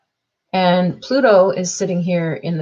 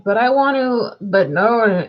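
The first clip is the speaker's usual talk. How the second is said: higher pretend protest from a kid; mock squabble; 4 semitones higher than usual. Kid arguing against a scolding parent, mock protest. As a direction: act out a kid and parent arguing back and forth. Acted parent and child argument.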